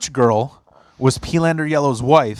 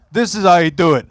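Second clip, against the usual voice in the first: higher, louder mock Sopranos accent; 4 semitones higher, 5 dB louder than usual. Drunk friend teaching merch girl, imitated Sopranos accent. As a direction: show it off in a mob-show accent. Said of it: "teach her how to speak Sopranos".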